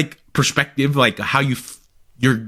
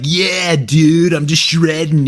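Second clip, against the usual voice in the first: loud, higher laid-back dude voice; surfer-dude impression; 4 semitones higher, 4 dB louder, slower than usual. Imagining an American eighty-two-year-old, a loud surfer dude. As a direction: play a hyped American grandpa bragging. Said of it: "he would have been like".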